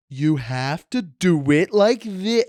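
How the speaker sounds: Mark's condescending tone. Retold or imitated. Host imitating his co-host lecturing someone, condescending and slow. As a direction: talk down as if to a child.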